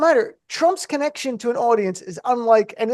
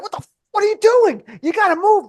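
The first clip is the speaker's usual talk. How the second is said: mock exasperation; 10 semitones higher than usual. Imagined outburst at shoppers.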